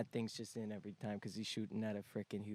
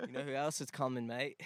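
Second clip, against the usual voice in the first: put-on Australian accent; 2 semitones higher than usual. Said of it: "that was Australian".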